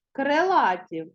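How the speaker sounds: Крилаті said as «крелаті», stressed on А; И heard as Е. Shown as a demonstration. Teacher showing pupils the unstressed vowel, Крилаті as «крелаті». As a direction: let the И in Крилаті lean toward Е. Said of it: "І наближене до Е".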